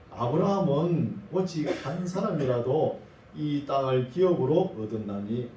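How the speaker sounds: measured, deliberate verse reading; scripture reading. Acted. Preacher reads God's word to Ezekiel, measured scripture reading. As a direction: recite the verse evenly, phrase by phrase.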